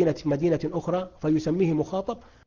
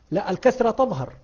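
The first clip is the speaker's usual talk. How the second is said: ordinary talk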